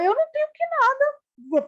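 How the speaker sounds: high defensive squeal; mock outraged protest; indignant retort. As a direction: snap back, indignant and high.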